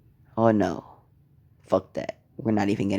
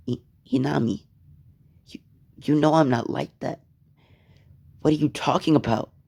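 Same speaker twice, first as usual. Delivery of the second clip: high, rushed, flustered plea; accused boy pleading, higher and hurried; stammering plea; 5 semitones higher than usual. Acted. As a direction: stammer out your innocence.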